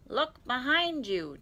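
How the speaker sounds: high, loud, drawn-out holler; slow, emphatic character yell; insistent shout. A narrator's reading. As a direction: stretch it out so it carries. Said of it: "Tigger shouted again".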